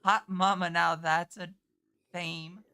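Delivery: loud hammed-up 1930s New York accent; brash 1930s New York accent, like an old cartoon wolf. Cartoon wolf turning to the audience in a loud 1930s New York accent. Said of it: "say in nineteen thirties New York accent".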